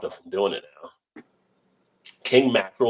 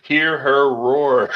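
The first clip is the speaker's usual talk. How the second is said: nature documentary narrator; 4 semitones higher, 5 dB louder, much slower than usual. Pretend. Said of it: "old Animal Kingdom".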